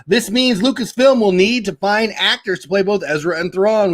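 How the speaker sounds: lightly projected article reading; entertainment-news reading voice. Acted. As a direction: read the report out to listeners. Reads an article aloud.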